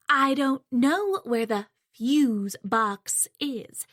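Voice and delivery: fuse box leaned on slowly as alien words; slow, disdainful stress on fuse box. Acted. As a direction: say fuse box as if it were a foreign term. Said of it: "stressing those two words as if they're completely alien".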